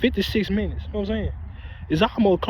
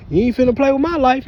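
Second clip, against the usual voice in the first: defiant, louder and higher; heated warning to the car; angry retort; 5 semitones higher, 4 dB louder than usual. Retold or imitated. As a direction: tell them off, voice rising.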